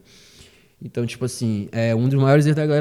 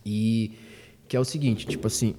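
trailing off; 4 semitones lower, 6 dB quieter than usual. Real, not acted. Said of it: "eu esqueci o que eu ia falar".

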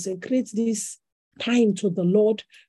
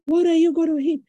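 imitating the chef; 7 semitones higher, 4 dB louder than usual. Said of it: "chef asking at nine o'clock".

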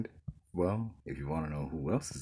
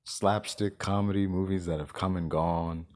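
excited; 2 semitones higher, 4 dB louder than usual. Real, not acted. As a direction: build the hype. Excited rant about remakes.

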